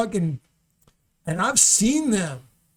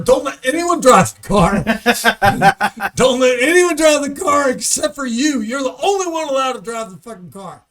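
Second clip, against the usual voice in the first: stern father's warning; 3 semitones higher, 8 dB louder than usual. Retold or imitated. Father warning his daughter about the new car, loud and stern. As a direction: bark the rule like a strict dad. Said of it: "her father had told her".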